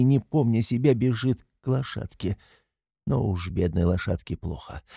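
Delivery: usual speaking voice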